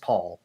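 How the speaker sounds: Paul said plainly as the name Paul, not as written; Paul, one plain syllable like the first name. Shown as a demonstration. Explaining the town's name to friends, Paul said like the plain first name. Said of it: "but it's pronounced".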